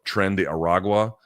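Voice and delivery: gringo pronunciation of Tren de Aragua; American accent Spanish. Shown as a demonstration. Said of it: "I'm gonna say it like a gringo".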